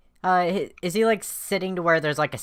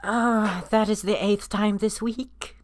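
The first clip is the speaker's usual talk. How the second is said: higher, slow exasperated groan of a line; 5 semitones higher, slower than usual. Acted. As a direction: draw it out, fed up. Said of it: "He kinda shakes his head and says".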